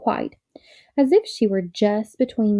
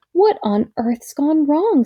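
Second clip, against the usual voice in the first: mildly frightened; 5 semitones higher, 4 dB louder, slower than usual. A narrator's reading. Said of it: "said Polly in a frightened voice".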